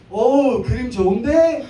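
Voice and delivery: mock thug ogling a couple; thug's catcall. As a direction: play the cheesy hoodlum line. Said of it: "늘 하는 대사죠".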